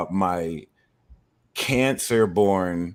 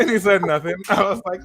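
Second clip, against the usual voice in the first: high, loud, worked-up telling; worked-up retelling; 12 semitones higher, 9 dB louder, faster than usual. Retold or imitated. Retelling the Lyft story to a friend, high and worked up. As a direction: get carried away telling it.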